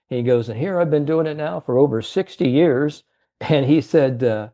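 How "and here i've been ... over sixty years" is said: put-on old salesman's voice. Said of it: "how he talked to".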